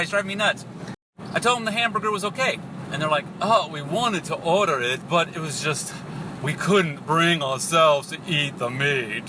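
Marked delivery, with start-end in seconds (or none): 3.4-9.2 Southern Belle twang. Retold or imitated. Imitated society ladies declining a hamburger, slow Southern Belle twang. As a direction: draw it out like a precious Southern Belle. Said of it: "that Southern Belle twang thing going".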